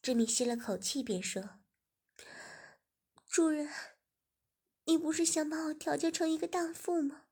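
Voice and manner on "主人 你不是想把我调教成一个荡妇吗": higher and louder, building to anger; young woman growing upset. A narrator's reading. Servant girl challenging her master, growing louder and higher. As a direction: confront him, voice climbing.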